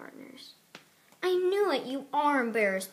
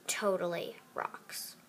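slow, whispered sarcastic totally; 3 semitones lower, slower than usual. Acted. Mean girl whispering sarcastic praise of the iPad. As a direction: drag out totally as a mocking whisper. Voicing girls' catty phone chat.

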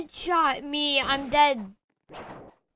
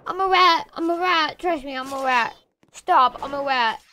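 loud pleading; 5 dB louder than usual. Pretend. Gamer begging other players not to shoot. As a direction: beg them loudly to spare you.

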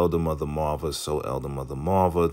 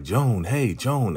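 calling out; 6 semitones higher, slower than usual. Retold or imitated. Couple calling through the fence.

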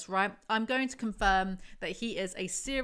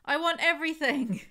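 higher, much louder booming cry; godlike cry; 8 semitones higher, 7 dB louder than usual. A narrator's reading. Fallen angel proclaiming to Zoe, booming godlike cry. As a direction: proclaim it like a god. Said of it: "he cried in the voice of a god".

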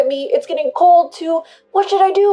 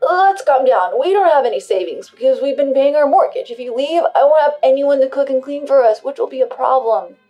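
desperate pleading; 4 semitones higher, 10 dB louder than usual. Acted. Husband pleads to avoid divorce.

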